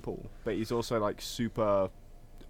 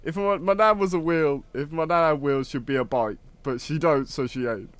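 higher, louder Scouse impression; Liverpool accent; 7 semitones higher, 4 dB louder than usual. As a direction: imitate the Liverpool guy on telly. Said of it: "The guy who goes".

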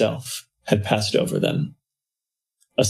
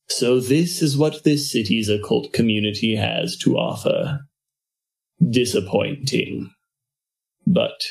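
oily blackmailer purr. Acted. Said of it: "a cold, oily voice hissed".

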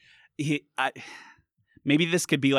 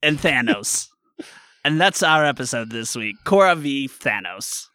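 louder dramatic recap narration; recap announcer voice; 4 dB louder than usual. Acted. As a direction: hype up the episode title. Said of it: "This is my previously on The Legend of Korra voice".

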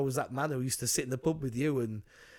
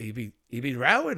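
attempted Irish accent; 5 dB louder than usual. Film fan retelling a pub scene, in a loose Irish accent. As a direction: have a rough go at an Irish accent. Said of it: "that's not good Irish accent".

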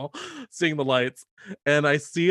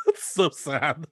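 slow words through a laugh; slower than usual. Real, not acted. Reacting to the freezer-screaming joke, laughing slowly. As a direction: laugh as you say it.

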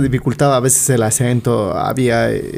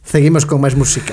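lightly put-on Spain accent with lisped Z; Castilian Spanish accent. Host imagining an announcer for Spaniards, Castilian Spanish accent. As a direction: mimic a Spaniard's th sounds. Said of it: "con la Z".

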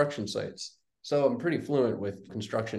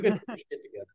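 a hint of a scolding father, pitched up; lightly voiced dad snapping at his son; mock stern dad; 7 semitones higher, faster than usual. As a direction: toss it off as the fed-up dad.

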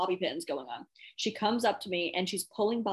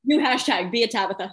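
excited slogan; 4 semitones higher, 6 dB louder than usual. Real, not acted. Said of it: "coining a slogan".

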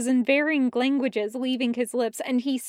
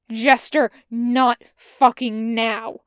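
louder, slow, growled warning; low growl; 7 dB louder, slower than usual. Acted. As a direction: growl it through the pain. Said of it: "he growls at her".

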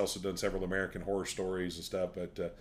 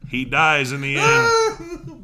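mock sobbing; 6 semitones higher, 11 dB louder, much slower than usual. Mock grief over Old Yeller.

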